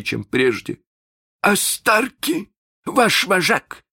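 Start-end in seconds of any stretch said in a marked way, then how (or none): 1.4-3.8 slow, high, sly question. Acted. Hook slyly singles out Starkey, slow and high. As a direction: slowly point out the ringleader. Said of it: "ещё вкрадчивее".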